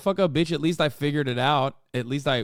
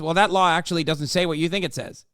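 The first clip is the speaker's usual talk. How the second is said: mock smug rebuttal; faster than usual. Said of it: "all he's gonna do is".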